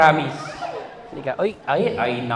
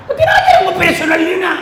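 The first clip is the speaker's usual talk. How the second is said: higher, louder mock shout through laughter; mock outrage; 9 semitones higher, 4 dB louder than usual. Comedian teasing the audience in a mock-outraged shout. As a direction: yell it like you're scandalized.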